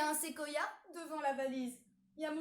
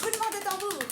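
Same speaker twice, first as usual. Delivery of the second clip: drumroll announcement; 7 semitones higher, 9 dB louder, much faster than usual. Acted. Announcing the reveal.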